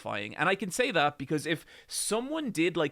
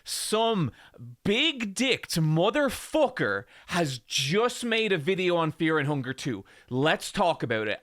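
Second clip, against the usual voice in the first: a light newsreader voice, a bit higher and louder; mock news anchor; 3 semitones higher, 3 dB louder than usual. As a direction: tease his own video like a breaking news intro. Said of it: "a news segment about my recent Fear and Hunger video and was just like".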